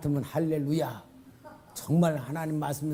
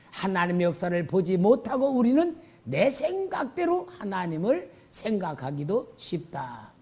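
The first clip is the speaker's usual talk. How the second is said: normal talking voice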